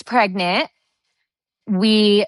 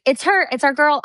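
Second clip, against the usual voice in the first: retold joyful excitement; 7 semitones higher than usual. Retells joy at positive test.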